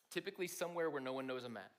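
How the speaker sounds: ordinary talk, nothing marked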